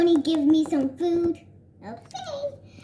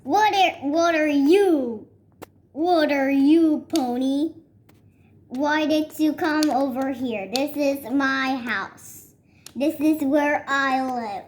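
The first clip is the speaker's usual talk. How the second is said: louder, indignant animal; lightly hammed-up grouch; mock grumpy scolding; 3 dB louder than usual. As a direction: tell off the trespasser.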